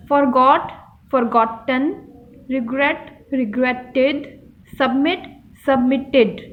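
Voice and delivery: forgot, regret, submit with a push on GOT, GRET, MIT; stressed last syllable. Shown as a demonstration. Teacher showing students where the stress falls, stressed GOT, GRET, MIT. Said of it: "जब हम ज़ोर से एक लफ्ज़ बोलते हैं, झटके से".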